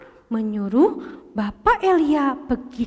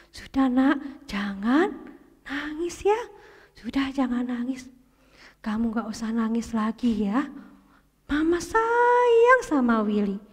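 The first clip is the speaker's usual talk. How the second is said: comforting mother. Acted. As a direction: hush him gently like a mum. Mother comforts crying Willy. (ibu menghibur anaknya dengan lembut)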